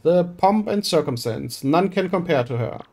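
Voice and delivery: a showy, theatrical rich merchant; pompous merchant voice. Acted. Boastful merchant recruiting the hero for a voyage, theatrical. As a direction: play it grand and self-important. Flavio shows off his ship.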